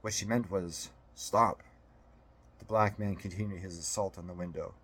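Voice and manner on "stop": clear cry. A narrator's reading. Narrator gives the cry clearly.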